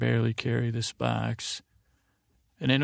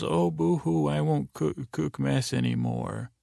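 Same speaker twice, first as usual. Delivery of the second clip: higher-pitched mock boo-hoo at the start; lightly mock someone's self-pity, pitch raised; 3 semitones higher than usual. Podcaster retelling Saul's jeer at Walt, mocking.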